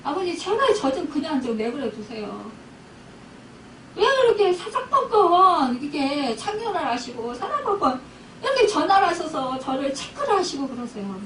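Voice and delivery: mildly annoyed retold complaint to a father-in-law; retold irritation. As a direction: re-enact fed-up pleading with an elder. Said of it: "아, 막 짜증을 냈어요".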